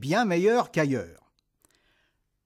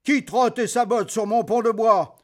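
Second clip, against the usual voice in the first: troll; 5 semitones higher, 4 dB louder than usual. Acted. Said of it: "dit le troll".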